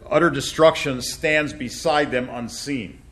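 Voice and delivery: each word laid out slowly and firmly; slow deliberate reading. Shown as a demonstration. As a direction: read it out slow so it sinks in. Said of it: "what did I have?".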